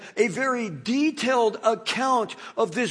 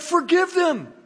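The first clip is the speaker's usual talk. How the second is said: "Forgive them" said higher and a little louder; brisk, raised "Forgive them"; plain forgiveness; 6 semitones higher, 3 dB louder than usual. Retold or imitated. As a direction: state it simply after the joke. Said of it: "Jesus is like".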